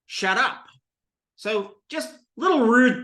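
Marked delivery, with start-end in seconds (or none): 0.0-0.7 "Shut up" said as "shaddup"; "Shut up" fused into one word; run-together pronunciation. Shown as a demonstration. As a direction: turn the t of "Shut" to a d. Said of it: "Almost like S H D D U P".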